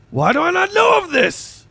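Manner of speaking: high, loud excited protest; loud high disbelieving question; indignant excitement. Real, not acted. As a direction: demand it in amazement. Excited about Spotify extension.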